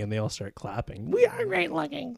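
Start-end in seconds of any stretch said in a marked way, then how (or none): 1.1-2.2 very high, silly cheering voice; mock delighted crowd. Audience applauding an empty compliment, mock delighted squeal. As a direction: squeal it as a gullible flattered audience.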